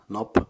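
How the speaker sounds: "nop" alone, stopped on the p; isolated syllable. Shown as a demonstration. Teacher with no English match for it, "nop" clearly isolated. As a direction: say "nop" as one short separate syllable. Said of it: "with the first syllable".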